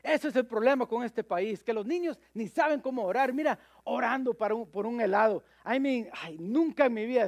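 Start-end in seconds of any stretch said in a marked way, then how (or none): 0.0-5.4 a lightly voiced scolding lady, a bit raised; mild public scolding, not a real shout; mock indignant lady. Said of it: "dijo en alta voz".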